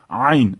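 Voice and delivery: عین with its first sound from the throat; throaty AYN. Shown as a demonstration. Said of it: "از خرطوم بره". (تلفظ «عین» از ته گلو)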